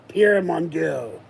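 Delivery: slow, hammed-up French accent; mock French accent, drawn out; bad French accent. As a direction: play a cartoon French killer. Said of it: "the Frenchmen talk in very bad accents".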